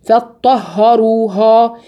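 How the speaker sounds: فطهروها with a thin, light ه, said slowly; slow recitation, keep the ه in فطهروها thin; correct tarqiq demo. Shown as a demonstration. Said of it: "الهاء ليس". (فطهروها بهاء مرققة وببطء)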